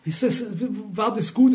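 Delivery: put-on praise from a listener; mock praise. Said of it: "ich sag den Leuten manchmal, wenn sie sagen".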